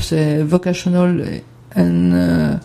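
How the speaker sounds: slow, hesitant English term, groping for the next word; searching for the words. Real, not acted. Presenter forgetting an English acronym, slow and hesitant. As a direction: drag out vocational while trying to remember. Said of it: "c'était quoi?".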